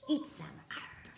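soft mock monster growl; quiet pretend growl; mock scary. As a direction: play scary for the kid.

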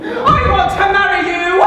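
loud, high-pitched outburst; ecstatic proposal. Acted. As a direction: blurt it out in sudden rapture. Sudden overexcited proposal to the date.

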